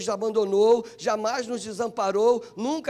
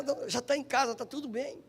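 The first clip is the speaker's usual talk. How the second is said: retold reassurance, dropping much softer; reassuring; 6 dB quieter than usual. Wife calming the preacher after accident news, reassuring. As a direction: settle the worry, trailing into a soft voice.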